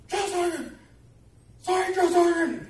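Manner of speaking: shouted high and loud at attention; sounding off. Retold or imitated. Recruit startled by the drill sergeant, sounding off loudly. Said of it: "the Army told us to sound off".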